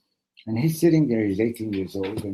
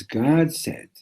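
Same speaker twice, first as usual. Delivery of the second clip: emphatic declaration; 7 semitones higher than usual. Acted. Clinching answer to the challenge.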